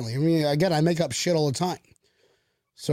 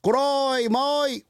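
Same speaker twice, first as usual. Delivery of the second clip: high, drawn-out fake British accent; 8 semitones higher than usual. Shown as a demonstration. Host demonstrating for the listeners, bad British accent. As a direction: do a badly mixed-up British accent, pitched up. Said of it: "what my British accent is".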